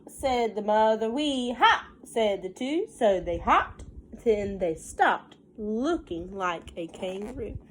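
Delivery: put-on sing-song read-aloud for a child; lilting picture book reading; story narration. A narrator's reading. Mother reading a counting book to her child, sing-song.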